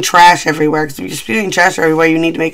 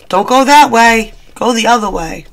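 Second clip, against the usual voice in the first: lightly voiced guide, slightly raised pitch; helpful direction-giver; 4 semitones higher than usual. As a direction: point someone the way, a touch insistent. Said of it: "Likes to give direction".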